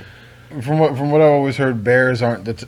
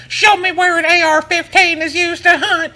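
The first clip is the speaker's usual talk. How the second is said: high, slow laughing mock; high, laughing parody of a parent; slower than usual. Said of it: "It's like".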